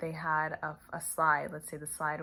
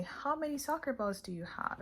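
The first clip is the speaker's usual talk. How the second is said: put-on much higher, bright question to a child; cheerful teacher question; 9 semitones higher than usual. Shown as a demonstration. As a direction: lift the voice high to coax a child. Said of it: "you say".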